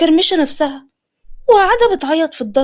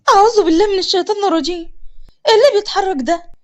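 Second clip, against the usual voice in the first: quick, higher startled cry; startled fear; 3 semitones higher, faster than usual. Acted. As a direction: jump at a noise in the dark. Startled by noise behind couch. (خضة وسرعة في الكلام)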